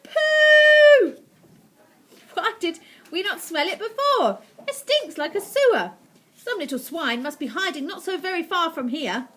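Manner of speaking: very high, loud shrieking witch; angry witch voice. Acted. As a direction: shriek with outrage and disgust. Witches raging.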